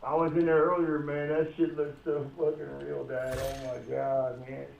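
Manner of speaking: echoey, like in a bathroom; roomy echo from a far mic. Real, not acted. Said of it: "why do you sound like you're in the bathroom?".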